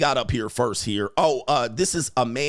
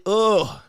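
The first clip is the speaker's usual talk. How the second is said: loud disgusted groan; a sharp ugh of disgust; 6 semitones higher, 4 dB louder than usual. Real, not acted. Disgusted reaction.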